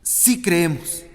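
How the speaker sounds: slow, deliberate confession; unhurried sincere yes; slow earnest answer. Acted. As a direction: linger on each word of faith. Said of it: "O sea".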